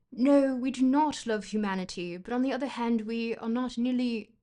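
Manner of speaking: loud, hammed-up fake British accent. A streamer reading Nietzsche to chat in a fake British accent. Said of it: "I'm going to switch in between accents".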